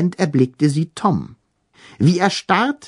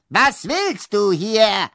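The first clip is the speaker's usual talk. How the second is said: hissed; 9 semitones higher, slower than usual. A narrator's reading. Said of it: "zischte sie".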